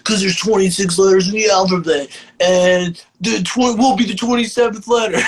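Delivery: high, put-on goofy explanation; goofy pitch. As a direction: push the voice up, proud of a silly idea. Acts out goofy band-name reasoning, laughing.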